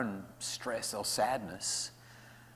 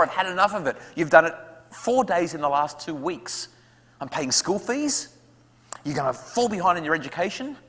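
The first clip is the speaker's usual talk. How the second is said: louder, higher exasperated rant; angry parent; 5 semitones higher, 4 dB louder than usual. Acted. Parent scolding child over school refusal, loud and exasperated. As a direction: let the frustration boil over. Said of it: "we get angry at them and say".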